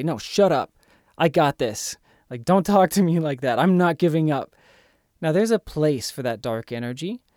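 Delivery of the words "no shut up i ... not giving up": a bit louder, pushing back hard at the inner voice; mock snapping at your inner critic, a little louder; overreacting reply. Shown as a demonstration. Self-help speaker shows an overreaction to the inner critic, firm and louder. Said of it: "If you overreact and say".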